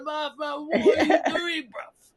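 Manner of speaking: mock-offended telling off a dealer; laughing refusal. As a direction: wave him off, half laughing in disbelief. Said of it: "I'm like".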